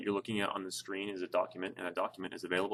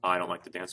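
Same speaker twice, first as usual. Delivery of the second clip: "I" emphasized to mark who dislikes it; stress on I. Shown as a demonstration. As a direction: put the weight on "I". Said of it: "really putting an emphasis on the".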